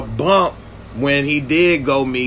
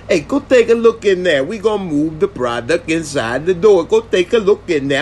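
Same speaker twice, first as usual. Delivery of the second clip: raised, pushy boss order; insistent yelled order; 4 semitones higher than usual. Retold or imitated. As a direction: shout the command higher. Boss repeats order, louder.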